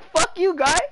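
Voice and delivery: high-pitched, hammed-up Chinese-accented outburst; mock Chinese accent. Streamer mimicking a woman arguing with her partner, mock Chinese accent. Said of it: "in such a thick Chinese accent".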